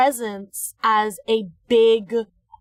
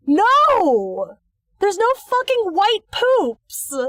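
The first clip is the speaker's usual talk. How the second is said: loud, high, drawn-out objection; exasperated outburst; 9 semitones higher, 5 dB louder, much slower than usual. Real, not acted. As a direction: blow up in playful disbelief. Mock outrage at a silly theory.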